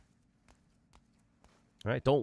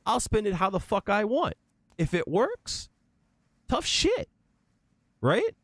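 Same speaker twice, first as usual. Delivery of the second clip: heated rant; 6 semitones higher than usual. Real, not acted. Heated rant about his meter.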